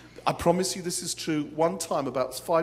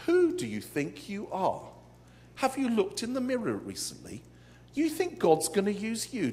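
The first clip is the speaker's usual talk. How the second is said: a scornful, taunting voice, pitched higher; mock the listener as a bully would; sneering ridicule; 5 semitones higher than usual. Preacher voicing ridicule to the church, sneering and taunting.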